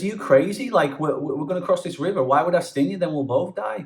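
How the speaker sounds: high, indignant scorpion; scorpion's voice. Acted. Scorpion scoffing at the frog, in a high indignant voice. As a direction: scoff at the very idea.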